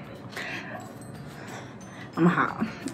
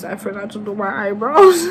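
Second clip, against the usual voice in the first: mock whine; 3 semitones higher, 5 dB louder than usual. Building mock despair.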